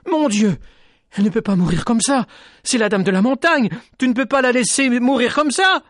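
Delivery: high, loud anguished plea to God; sobbing plea. Acted. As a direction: plead with God through sobs. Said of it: "étouffée par ses sanglots". (supplication sanglotante, aiguë et forte)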